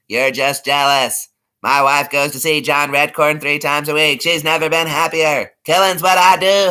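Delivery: conspiracy nut voice, building up; Rusty Shackleford impression. Doing a King of the Hill neighbor for chat, paranoid rant to Hank. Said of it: "Rusty, oh".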